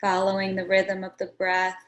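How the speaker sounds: unhurried meditation guide, long pauses between phrases; guided meditation. Acted. Meditation teacher settling listeners into a seated posture, guided meditation. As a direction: guide them gently into stillness, phrase by phrase.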